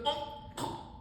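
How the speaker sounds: mock choked "oh"; imitated choking gasp. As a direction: act out a choke on a short gasp. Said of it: "Tutu is choking and then goes".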